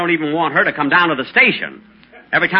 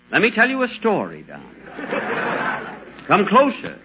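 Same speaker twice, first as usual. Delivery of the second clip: mysterious storytelling; 2 semitones lower than usual. Acted.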